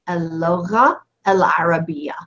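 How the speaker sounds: whispered repeat. Shown as a demonstration. Teacher repeats term softly.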